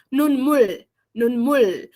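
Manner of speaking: "Nun mul" with the L held, tongue on upper teeth; final Korean L. Shown as a demonstration. Teacher showing where the tongue goes, clear final L in "Nun mul". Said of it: "encosta, ah, a língua ali, ó, nos dentes".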